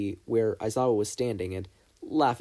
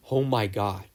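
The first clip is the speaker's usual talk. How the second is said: fond exasperated scoff; 3 dB louder than usual. Acted. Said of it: "scoffing exasperatedly, but fondly".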